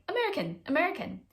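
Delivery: high-pitched, separate little exclamations; excited spotting. Retold or imitated. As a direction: call out each one as a fresh discovery. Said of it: "heard an American accent here and there".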